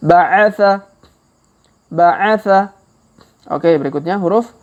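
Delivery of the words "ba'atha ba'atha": ba'atha run together in one quick word; faster reading. Shown as a demonstration. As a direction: read it fluently at speed. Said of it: "Kalau dipercepat".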